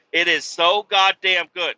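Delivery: loud raving over the sandwich. Retold or imitated. A trucker raving to the cook about the sandwich, loud and excited. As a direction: shout how good it is.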